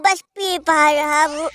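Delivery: laughing shout at his own joke; mock sob into a laugh. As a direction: let the wail crack into a laugh. (हँसी में बदलता नाटकीय रोना)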